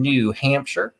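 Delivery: accidental light Southern twang; Southern accent. Real, not acted. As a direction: slip into a slight Southern accent on the place name. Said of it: "gave New Hampshire a Southern accent".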